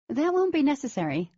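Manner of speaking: cutting in. A narrator's reading. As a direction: cut in firmly over him. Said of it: "the woman cut in".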